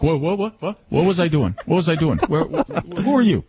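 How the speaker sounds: confused beagle. Retold or imitated. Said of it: "the beagle will be like".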